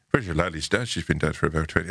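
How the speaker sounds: lightly imitated Irish lilt; singsong Irish accent. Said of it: "singing way of talking".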